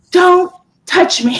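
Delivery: high, slow mock outrage; retold indignation. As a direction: push it high and slow, playfully offended. Retells telling off her daughter.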